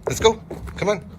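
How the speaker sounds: high, eager call to a dog; high-pitched dog call; coaxing a dog. Real, not acted. Calling the dog over.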